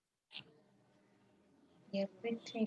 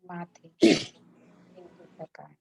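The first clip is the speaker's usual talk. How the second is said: unhurried relaxation guide, long pauses between phrases; guided meditation. Real, not acted.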